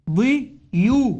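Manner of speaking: امضيوا drawn out slowly, imdiyu, each sound clear; spelled-out base form. Shown as a demonstration. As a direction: stretch امضيوا syllable by syllable. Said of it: "هيدي أصل بنية الكلمة".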